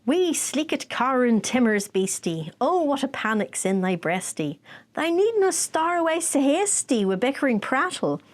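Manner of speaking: reciting Burns in broad Scots; Robert Burns read in a Scottish accent; Scottish poem recital. Shown as a demonstration. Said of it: "I'm gonna do the abridged version".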